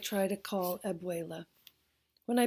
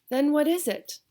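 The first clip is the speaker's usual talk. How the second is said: pressing question; 7 semitones higher, 6 dB louder than usual. Acted. Grandma presses the boy.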